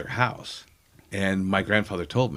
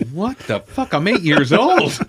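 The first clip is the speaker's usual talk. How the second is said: put-on indignant kid; 9 semitones higher, 7 dB louder than usual. Kid protesting dad's order.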